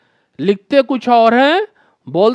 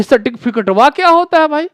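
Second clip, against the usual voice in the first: puzzled; 4 semitones higher, faster than usual. Real, not acted. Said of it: "हमरा दिमागवा जो है चकरा जाता है".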